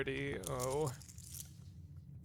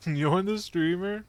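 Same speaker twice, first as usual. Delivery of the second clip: incredulous; 6 semitones higher, 6 dB louder, slower than usual. Real, not acted. Mock disbelief at chat.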